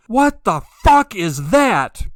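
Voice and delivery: high, loud, slow What the fuck; startled scream. Retold or imitated. Man sees a light in the sky, screaming in alarm. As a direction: shout it out like you've just seen something impossible. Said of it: "just screamed at him".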